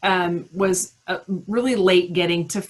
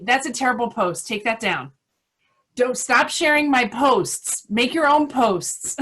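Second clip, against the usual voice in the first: mock scolding; 4 semitones higher, 3 dB louder than usual. Retelling a friend's critical texts to the group, mock scolding.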